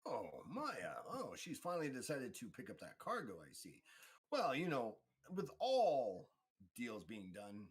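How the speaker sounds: lightly voiced theatrical deal-maker; mildly hammed-up broker naming terms; knowing information broker. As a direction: swoop the pitch like a showy broker. GM plays information broker Switch.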